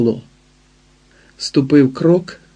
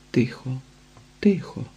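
soft hushed whisper to calm him; soothing whisper to a weeping man; hushing whisper; 8 dB quieter than usual. A narrator's reading. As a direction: shh him gently, almost voiceless.

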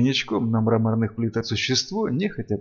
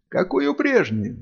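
wailing cry; 11 semitones higher than usual. A narrator's reading. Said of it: "завопила Сильвия".

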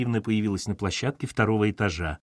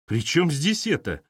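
higher, slow indignant retort; flaring up; 6 semitones higher than usual. A narrator's reading. Katerina bristles at boss's confession, flaring up. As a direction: bristle at the question, pitch raised. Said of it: "взвилась Катерина".

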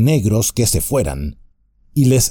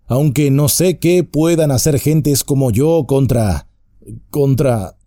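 voice breaking; 5 semitones higher than usual. Acted. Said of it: "Se le quebró la voz".

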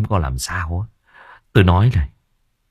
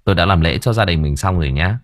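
gentle reassurance; 2 semitones lower than usual. Acted. Master consoling grieving homeowner.

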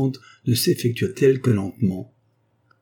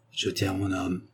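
softer aside, lips barely open; muttered through teeth; 6 dB quieter than usual. A narrator's reading. The doctor mutters to himself, sure of his deal, softly. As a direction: mutter it to yourself, pleased. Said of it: "murmura entre ses dents".

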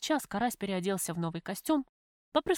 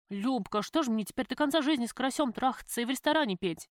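verzweifelt aufgebracht; 4 semitones higher than usual. Acted. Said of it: "в сердцах спросила я".

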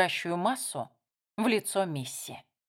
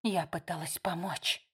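softer, subdued line; quietly; 2 semitones lower, 6 dB quieter than usual. A narrator's reading. Missy answers her sister quietly, subdued. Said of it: "тихо сказала Мисси".

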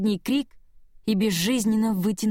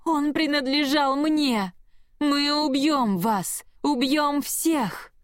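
high, slow, inhuman threats; demonic roar; 6 semitones higher, slower than usual. A narrator's reading. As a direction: drag out each threat like a monster. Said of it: "зарычала от боли и ярости".

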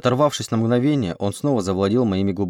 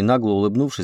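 ordinary delivery, nothing marked

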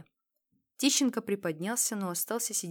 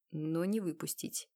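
ordinary delivery

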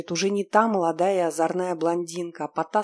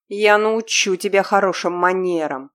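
louder menacing threat; angry threat; 2 semitones higher, 7 dB louder than usual. Acted. Captor threatening the girl, angry and loud. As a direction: promise to punish her.

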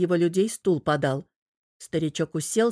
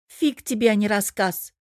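offended; 3 semitones higher than usual. Acted. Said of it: "обиженно проговорила Тереза".

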